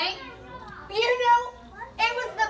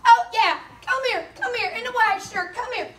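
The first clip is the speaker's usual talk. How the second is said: calling out; 3 semitones higher than usual. Acted. Calling kids to share gospel.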